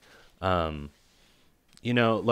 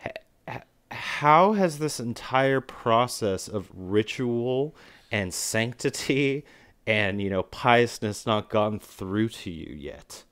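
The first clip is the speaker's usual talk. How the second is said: mock exasperated question; 3 semitones higher, slower than usual. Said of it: "and I'm like".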